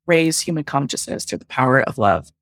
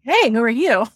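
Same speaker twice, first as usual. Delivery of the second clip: playful, higher, teasing question; light flirt at a handsome stranger; flirty hello; 6 semitones higher than usual. Retold or imitated. Instantly attracted to shirtless man.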